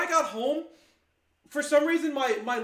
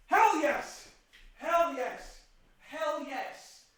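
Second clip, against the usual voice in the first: fading cheer; 2 semitones higher, much slower than usual. Real, not acted. Repeats cheer, fading each time.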